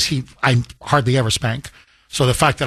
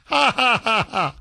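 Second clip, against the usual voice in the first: laughing; 7 semitones higher than usual. Real, not acted. Laughing at kids' teasing.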